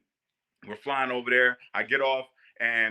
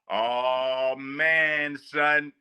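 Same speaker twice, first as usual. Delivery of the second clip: imitating Bilal; much slower than usual. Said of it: "That's how he talked".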